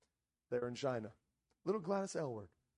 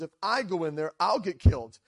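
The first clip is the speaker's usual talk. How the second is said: "I" and "I'll" punched louder; stress on I; 7 dB louder than usual. Retold or imitated. Missionary protests to the officials about her own safety, stress on "I". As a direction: lean hard on "I" and "I'll" in protest. Contrasts herself with the soldiers.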